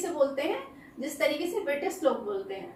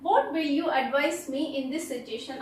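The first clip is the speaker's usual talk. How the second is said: very slow, every word spaced out; slow dictation; much slower than usual. Shown as a demonstration. Teacher reading an example sentence very slowly to students. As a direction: read it out slowly so students can write it down.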